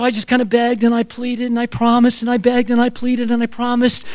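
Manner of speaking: monotone run-on list; mock pleading litany. Son begging dad for the car, droning pleading. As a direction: rattle it off on one note without stopping.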